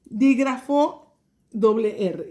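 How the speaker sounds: name it carefully for the class; deliberate teacher stress on "dígrafo doble R"; slow clear digraph name. Shown as a demonstration. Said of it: "trazar el".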